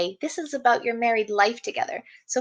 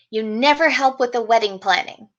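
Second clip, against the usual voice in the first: louder, accusing complaint at a partner; complaining partner; 4 dB louder than usual. Pretend. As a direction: list the grievances like a fed-up partner. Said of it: "Those are complaints".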